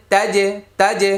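তাজে with an echoing bounce on the j; qalqalah bounce. Shown as a demonstration. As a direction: slowly pop the j at the end of তাজে. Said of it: "কলকলা".

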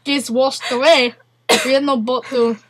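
mock Russian accent, halting. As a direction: tell a woeful tale in put-on Russian accent. Keeps up Russian character.

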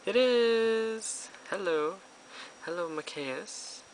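high, loud delighted squeal; excited squeal. Real, not acted. Rare pull excitement.

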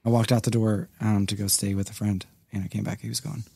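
soft, low voice holding back tears; quiet grief. Real, not acted. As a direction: speak quietly about losing your dad. Telling of father's death.

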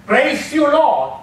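honor God as healer, lightly; worshipful praise. Shown as a demonstration. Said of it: "that is worship".

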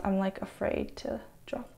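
soft, unvoiced aside; whisper. Real, not acted. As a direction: hush it nervously. Fragile hair, hushed aside.

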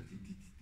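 barely audible weak "ti, ti"; faint dying sounds. Retold or imitated. Son imitating his dying father's last faint sounds. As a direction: breathe out tiny faint syllables like a dying man. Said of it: "Así le hacía".

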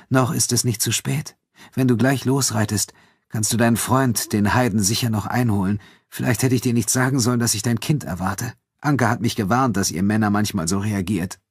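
a hint of wounded accusation; lightly voiced Elena, reproachful.

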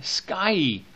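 Skyey said slowly as sky-ee with a long ending; tough word. Shown as a demonstration. Teacher trying out an awkward word for the class, carefully. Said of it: "That's a tough word to say".

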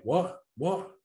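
high, rising retold "what?"; puzzled query. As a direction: ask twice, pitched well up, as if you missed it. Asking about words he missed.

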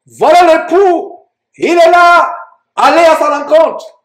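high, drawn-out proclamation; crying out. Acted. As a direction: call it out to wake the sleepers. Preacher voices the midnight cry.

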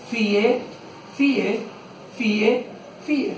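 Fie, fie, fie said one by one; fie counted. Shown as a demonstration. Pupil asks, teacher counts out fie. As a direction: tap out each fie. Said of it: "Enséñame los cuatro".

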